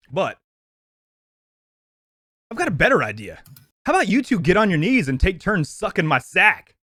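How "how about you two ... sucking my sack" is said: delivering the movie line. Acted. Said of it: "I'm supposed to deliver it as if I would if I was playing the character".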